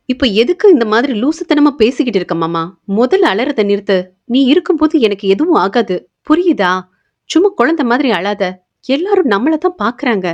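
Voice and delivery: acted fond reprimand; mild scolding. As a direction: lightly scold someone to stop crying. Heroine scolds her crying lover.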